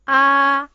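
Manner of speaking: Ah held long with mouth open; clear model vowel. Shown as a demonstration. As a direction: sing out Ah wide open. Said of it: "Open your mouth".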